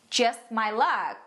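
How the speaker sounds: slow, dryly ironic example; sarcastic intonation. Shown as a demonstration. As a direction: say it slowly as an unlucky person's wry remark. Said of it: "tem que dar essa entonação". (entonação sarcástica, devagar)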